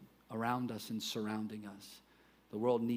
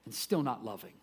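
Paul's emphatic no; 4 semitones higher, 5 dB louder than usual. Retold or imitated. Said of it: "He says".

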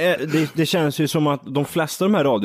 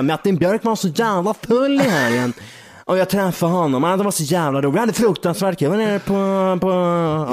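imitating Stockholm DJ gossip; 2 semitones higher than usual.

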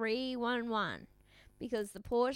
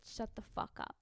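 whispered retort; 11 dB quieter than usual. Retold or imitated. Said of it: "and he said".

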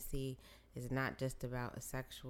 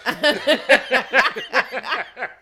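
laughing shout; 9 semitones higher, 20 dB louder than usual. Real, not acted. Laughing outburst over phone.

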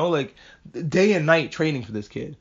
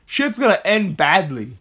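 loud, high taunting outburst; hammed-up demon warning, slowing at the end; mock freak-out; 4 semitones higher, 5 dB louder than usual. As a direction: blurt it loudly like a panicking prophet. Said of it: "freaks out and goes".

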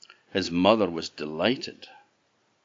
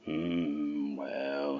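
giant's grunt; 4 semitones lower, 8 dB quieter than usual. A narrator's reading.

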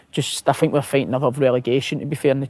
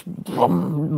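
long rumbling brum of a sports car; imitated engine roar. Storyteller mimics a Lamborghini coming down the road, drawn-out engine noise.

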